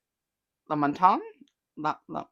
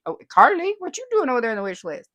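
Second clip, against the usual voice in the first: higher, louder teasing call; playful teasing; 3 semitones higher, 6 dB louder than usual. Real, not acted. Host teasing a viewer caught on the wish list. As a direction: tease her for wish-listing it.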